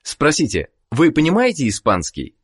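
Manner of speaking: ordinary delivery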